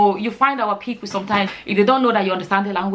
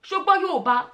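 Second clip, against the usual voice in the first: acted surprise; 4 semitones higher than usual. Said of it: "They looked at me like".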